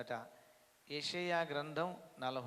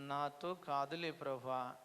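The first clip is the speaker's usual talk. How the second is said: mock excuse; 3 dB quieter, slower than usual. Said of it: "సాకులు చెప్తారు".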